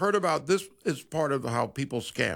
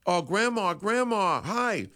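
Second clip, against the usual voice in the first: put-on a young boy's voice, pitched higher; sweetly greeting his grandma on the phone; grandson on the phone; 5 semitones higher, slower than usual. Scam caller greets the grandma as her grandson, lightly higher voice. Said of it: "and he goes".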